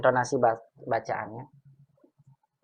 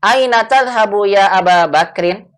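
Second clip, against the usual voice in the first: "Aina" stressed, louder, rising at the end; model line to repeat; 6 semitones higher, 9 dB louder than usual. Shown as a demonstration. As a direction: say it clearly so the class can repeat "Aina tadhhabu". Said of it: "dengarkan dan ikuti bacaannya". (ucapkan "Aina" dengan tekanan dan nada naik di akhir)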